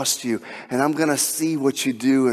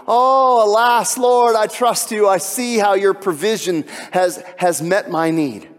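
amazed praise; 6 semitones higher, slower than usual. Retold or imitated. Worshipper thanking the Lord for provision, high excited cry. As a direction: cry out to the Lord in delighted relief.

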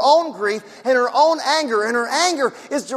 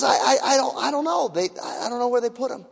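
stammering, softer, tearful voice; crying; 4 dB quieter than usual. Retold or imitated. Preacher voicing a weeping Mary, broken and hushed. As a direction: falter through the words as if near tears. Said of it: "She, she's crying".

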